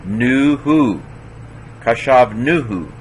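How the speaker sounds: nuhu with the first syllable, nu, stressed. Shown as a demonstration. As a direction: lean on nu in nuhu, letting hu fall away. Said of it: "'cause the accent's on the nu".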